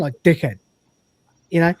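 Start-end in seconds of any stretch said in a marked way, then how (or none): 0.2-0.6 short British-accented "Dickhead". Shown as a demonstration. Streamer showing how he hears the insult, British accent. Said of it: "I hear it in a British accent".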